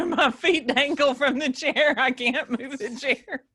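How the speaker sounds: laughing through the words about her feet. Real, not acted.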